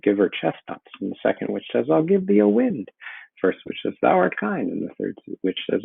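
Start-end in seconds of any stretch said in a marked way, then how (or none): 1.9-2.9 witch voice. Acted. Teacher voicing second witch. 4.0-4.7 witch voice. Acted. Teacher voicing first witch.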